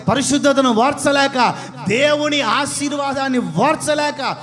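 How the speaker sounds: loud, building sermon cry with a shout; fiery preaching. Acted. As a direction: drive it home to the congregation. Preaching at full force.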